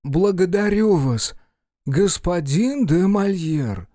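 high, measured royal voice; a monarch slowly and formally giving thanks; Louis. Acted. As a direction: raise the pitch and draw out the name. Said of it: "Голос Людовика из сени".

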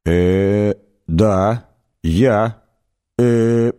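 halting confirmation between drawn-out fillers; bewildered hesitation. A narrator's reading. Arthur confirming his name to the alien, bewildered hesitation. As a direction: hesitate on every word, unsure. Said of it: "Артур растерянно кивнул".

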